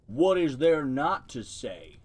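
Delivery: a lightly deepened slow turtle voice from the mud; deep voice. Acted. Turtle in the mud lecturing the mice, lightly deepened voice. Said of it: "came the answer from the gravelly voice".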